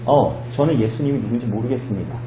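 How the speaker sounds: 낮고 조용하게, 점잖게; 점잖은 부인. Acted. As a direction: deny it softly, like a polite gentleman. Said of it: "참 젠틀하게". (젠틀하고 나직하게)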